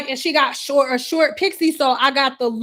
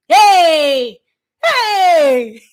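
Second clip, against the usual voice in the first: imitating client; 2 semitones higher, 6 dB louder than usual. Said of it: "client's story".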